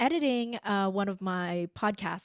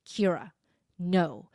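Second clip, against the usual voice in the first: calm, measured parent setting a limit. Retold or imitated. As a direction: re-enact a gentle, firm correction to a child. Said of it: "say this in a nice, calm voice".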